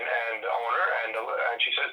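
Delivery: normal talking voice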